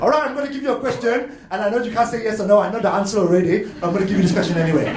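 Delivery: rushed, over-obvious questioner; too obvious. Retold or imitated. A lecturer mocking a too-obvious persuader, rushed and blunt. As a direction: gabble it out like a clumsy persuader. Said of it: "Don't be too obvious and go like".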